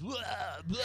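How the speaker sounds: two short mock vomit noises; imitated retching. Retelling tossing twice on her, imitated retch. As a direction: act out throwing up twice, comically.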